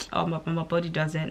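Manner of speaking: soft, flat inner reply; inner thought. Retold or imitated. Answering a compliment in her head, quietly deflated. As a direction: say it under your breath, deflated. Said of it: "I'm like".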